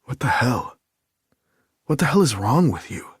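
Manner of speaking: exasperated outburst. A narrator's reading. Nick floored, snapping back.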